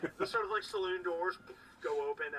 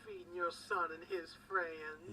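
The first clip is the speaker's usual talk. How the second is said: slow, high and louder, fussing over him; doting mother voice; 3 semitones higher, 4 dB louder than usual. Acted. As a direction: praise him like a proud mom. Innkeeper praises Torin.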